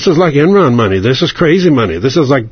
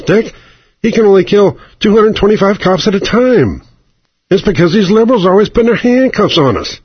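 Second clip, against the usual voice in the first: gun lobby guy; 3 semitones higher than usual. Acted. Lobbyist griping to Cheney in a raised mock voice. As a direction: whine about the liberals like a gun nut. Wayne of the NRA voiced, ranting.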